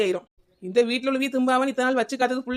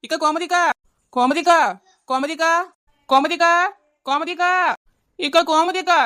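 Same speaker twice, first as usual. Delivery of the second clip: raised, rising calls across a distance; calling out loudly; 4 semitones higher, 4 dB louder than usual. Acted. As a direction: keep shouting her name as you run up. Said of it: "ஏன் இப்படி கத்திட்டு ஓடி வரா?". (கூப்பிட்டு கத்துதல்)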